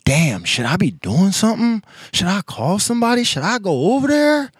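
anxious inner questions. Retold or imitated. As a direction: fret out loud, each question climbing. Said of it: "that's the point where I was like".

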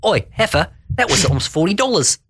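high, put-on complaining voice; indignant Rocco voice. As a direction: raise the voice high and whine about the bill. Rocco complaining about the bill.

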